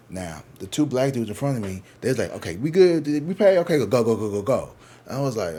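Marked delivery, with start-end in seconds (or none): 2.3-4.7 quick-fire nudge to get moving; hurried urging. Retold or imitated. Two men in line wanting out fast, mock hurried urging.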